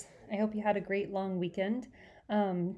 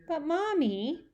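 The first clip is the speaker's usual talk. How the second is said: put-on whining child; 8 semitones higher, slower than usual. Fudge pleading.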